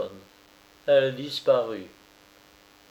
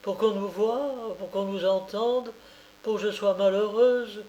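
near tears; 8 semitones higher than usual. A narrator's reading. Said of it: "et elle commença à pleurer".

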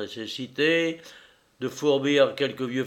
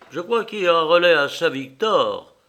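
asking; 6 semitones higher, 7 dB louder than usual. Acted. Narrator asks the driver.

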